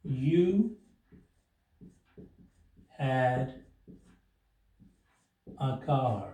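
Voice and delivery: each word spaced out with long pauses; slow word-by-word dictation. Shown as a demonstration. Teacher dictating the sentence word by word. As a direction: dictate slowly to students, one word at a time. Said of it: "देखिए कैसे बनेगा".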